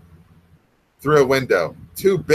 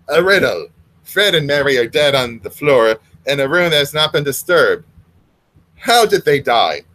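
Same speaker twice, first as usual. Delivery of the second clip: sinister ogre; 4 dB louder than usual. Acted. Ogre addresses the fish.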